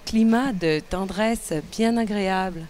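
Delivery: lightly put-on sexy Parisian French accent, low and lingering. Quebec host reading a horoscope to her co-host, in a light sexy French accent. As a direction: purr the horoscope like a seductive French woman, only a hint of it. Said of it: "c'est ma voix sexy française".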